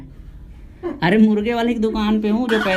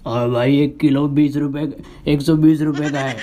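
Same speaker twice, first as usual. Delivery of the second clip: a hint of the butcher quoting the price; chicken seller voice; 7 semitones lower than usual. Chicken seller telling the price, in a lightly lowered voice. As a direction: lightly lower gruff shopkeeper voice. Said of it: "मुर्गा वाले की आवाज़".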